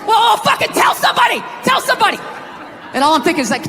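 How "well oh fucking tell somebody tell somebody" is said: high-pitched, exasperated inner voice; worked-up mock pleading with himself; exasperated urging. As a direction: throw out the fallback plan, pitched high. Acted argument inside his head.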